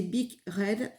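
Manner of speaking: English words with a French accent. Real, not acted. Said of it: "Excusez-moi pour mon accent". (anglais avec un accent français)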